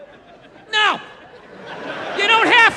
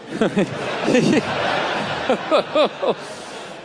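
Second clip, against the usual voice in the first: mock nervous tittering, mostly breath; nervous laughter; 4 semitones lower than usual. Passengers after turbulence stops, imitated nervous laughter. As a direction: imitate uneasy passengers giggling. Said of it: "laughing nervously".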